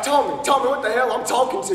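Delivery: loud call demanding Tommy answer him. Acted. Calling out angrily.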